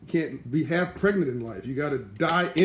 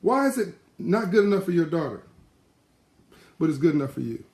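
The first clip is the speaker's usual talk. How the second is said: pointed question; 3 semitones higher than usual. Retold or imitated. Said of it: "He said".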